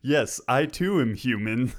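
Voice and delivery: slow flat robot voice; robot faking human. Pretend. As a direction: stiff robot pretending to be human. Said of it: "way to make it robotic as fuck".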